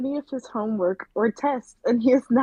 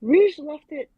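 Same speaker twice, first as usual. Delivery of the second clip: librarian voice; 3 dB quieter than usual. Acted. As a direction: read it like a school librarian. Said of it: "Very librarian-like".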